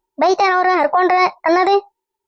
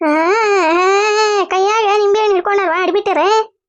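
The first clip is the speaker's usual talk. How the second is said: mock crying wail; 3 semitones higher than usual. Old woman wails on catching them.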